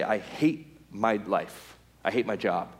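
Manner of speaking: low, slow mock misery; acted downcast griping; glum complaint. Voices man griping about life.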